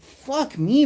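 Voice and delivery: high, exaggerated disgust; mocking a reactor swearing at a clip; mock outraged reactor. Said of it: "And it's like".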